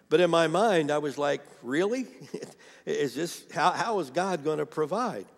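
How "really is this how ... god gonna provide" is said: higher, doubting question with a small laugh; retold incredulity. Woman doubting the voice telling her to trust God, incredulous. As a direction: question it in mild mock disbelief.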